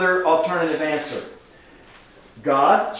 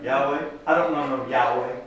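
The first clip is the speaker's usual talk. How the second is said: Pharaoh's dismissive line, lightly voiced through a laugh and softer; 4 semitones lower, 6 dB quieter than usual. Teacher retelling Pharaoh to the class, laughing mock scoff. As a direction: chuckle out "I don't know no Yahweh" like a scoffing Pharaoh. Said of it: "And what Pharaoh say?".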